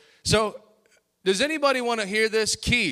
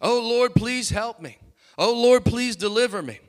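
high, louder pleading prayer; crying out to God; 4 semitones higher, 4 dB louder than usual. Retold or imitated. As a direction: beg God for rescue. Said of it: "he begins to cry out to God".

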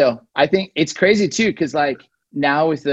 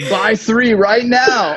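infomercial pitch; 4 semitones higher, 5 dB louder, slower than usual. Pretend. Continuing infomercial bit.

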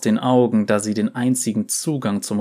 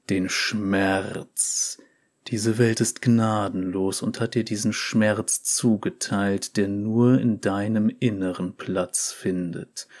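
slow hypnotist voice. Acted. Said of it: "mit hypnotischer Stimme".

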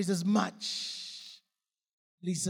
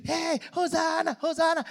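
higher, loud cheering cry; crowd cheering; 10 semitones higher, 4 dB louder than usual. Retold or imitated. Crowd cheers the donkey's rider, higher mock cheering shout. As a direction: cheer like the Palm Sunday crowd.

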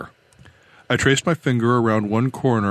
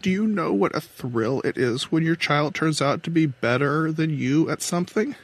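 higher-pitched woman captain; control captain, earnest; 6 semitones higher than usual. Acted. Captain asks a father about his child, earnest. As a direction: ask it earnestly in a raised character voice.

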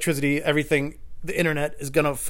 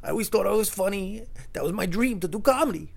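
mock teary lament; 7 semitones higher than usual. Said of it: "he almost started crying".

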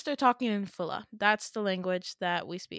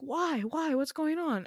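acted alarm; 7 semitones higher than usual. Acted child demanding an explanation.

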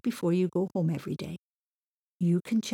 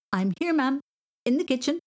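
calling back; 8 semitones higher, 4 dB louder than usual. Acted. Boy calling to mam upstairs.

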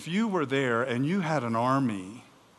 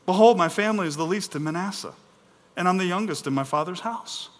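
mildly plaintive, slightly raised voice; woe is me; 3 semitones higher, faster than usual. Acted. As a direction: read it as a light poor-me plea. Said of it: "this is kind of the woe is me moment".

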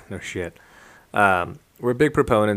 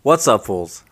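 hype intro; 2 semitones higher, 8 dB louder, slower than usual. Acted. Podcast intro greeting.

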